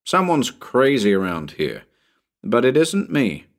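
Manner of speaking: mildly impatient aside; a touch of irritation. Acted. Narrator on the roof grumbles to Bill, mildly impatient. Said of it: "then added impatiently".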